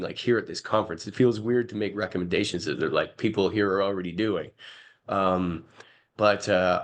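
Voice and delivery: a slightly hoarse, croaky voice. Real, not acted. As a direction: speak through a croaky throat. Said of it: "apologize for, uh, my croaky voice".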